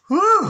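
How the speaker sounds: high, loud delighted whoop. Real, not acted. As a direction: let out a sudden joyful woo. Card flips out, delighted.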